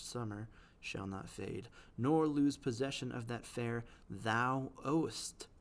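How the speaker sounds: slow, measured sonnet reading; poem recital. Acted. Teacher reading Shakespeare to the class, slow poetic recital. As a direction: read it like verse, unhurried.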